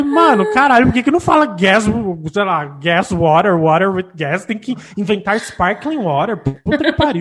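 mock rant. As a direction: vent about silly English words. Ranting retold complaint. (reclamando, exasperada)

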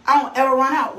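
emphatic repeat. Shown as a demonstration. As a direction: drive it in on the repeat. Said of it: "repeats it for emphasis".

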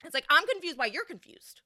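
mock her confusion under your breath; incredulous. Real, not acted. To the audience, scoffing at Alana's confusion.

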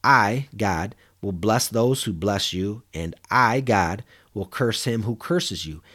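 "I" set apart and weighted, slowed delivery; stress on I. Shown as a demonstration. Pastor reading God's blessing aloud, pressing on "I". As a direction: lean on each "I" before "God". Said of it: "I was emphasizing the word "I".

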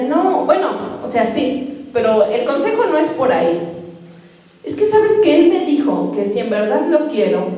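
imitating an eager young girl explaining herself; voicing the young friend. Girl's words retold, voice raised.

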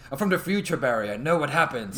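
lightly pompous, self-important tone; pompous villain voice. Retold or imitated. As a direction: play the smug man from the future. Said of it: "have that pompous voice".

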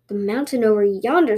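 mildly doubtful questioning tanuki; suspicious. Acted. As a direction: echo it back with a touch of suspicion. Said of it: "said the tanuki suspiciously".

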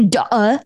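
"Duh" with the middle of daughter swallowed; clipped-off "daughter". Retold or imitated. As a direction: say "Duh" for daughter, dropping the consonants. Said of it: "he literally says daughter like this".

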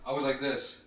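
talking while standing up; moving while talking; getting up from chair. Real, not acted. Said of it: "let me get up and show you".

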